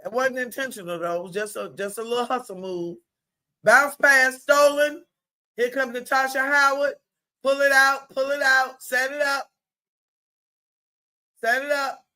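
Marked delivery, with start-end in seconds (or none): 3.6-12.0 loud, high hype calls from the stands; excited courtside cheering. Shown as a demonstration. Sports mom hollering from the bleachers, excited. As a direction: cheer them on like a sports mom at her daughter's game. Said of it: "This is what I used to sound like on my daughter's game video".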